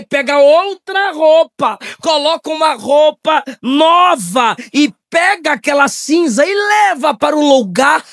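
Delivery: usual speaking voice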